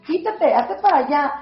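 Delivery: a mild imitation of a parent barking at a child; half-hearted mock shouting of a harsh parent; mock yell at a child. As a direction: toss off a light, scolding "get out of the way".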